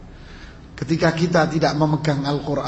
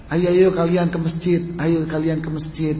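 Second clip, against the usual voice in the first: slightly raised, bossy "Ayo, ayo" pushed out hard; harsh command. Retold or imitated. Father at home ordering his kids to the mosque, mildly harsh. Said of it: "Enggak usah dengan intonasi yang keras".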